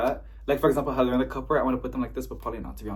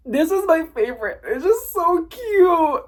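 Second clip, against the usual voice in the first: high-pitched squeal over a favorite; gush, stretching out the praise; gushing delight; 14 semitones higher, 5 dB louder than usual. Real, not acted. Vlogger shows favorite plant, gushing.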